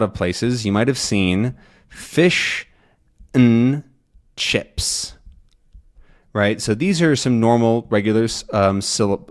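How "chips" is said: "chips" breathed with no voice; whispered demo word. Shown as a demonstration. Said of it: "Fish has f-ish".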